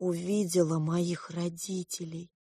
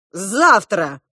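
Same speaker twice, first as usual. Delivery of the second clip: louder cheered-up exclamation; eager cry; 2 semitones higher, 10 dB louder than usual. A narrator's reading. Prince promising to search, crying out eagerly. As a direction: burst out with new hope. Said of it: "вскричал ободрившийся принц".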